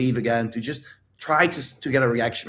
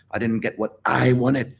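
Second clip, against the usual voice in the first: mock angry whining. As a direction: imitate a tantrum, half-hearted. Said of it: "you were angry".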